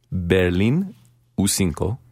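put-on Berlin in a Colombian Spanish accent. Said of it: "well, Colombian accent".

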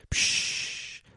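soft, drawn-out shush; hushing. Acted. People silence someone with a vision, soft hushing. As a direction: let out a long "psch".

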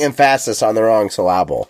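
"emphasis" as em-FASS-is, "syllable" as suh-LAB-ul; misplaced stress. Shown as a demonstration. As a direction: jokingly stress "emphasis" and "syllable" on their middles. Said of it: "I put the wrong emphasis".

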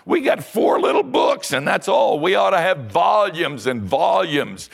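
high, loud, pleading cry of why; impassioned outcry. Real, not acted. Preacher crying out to the church, high and loud.

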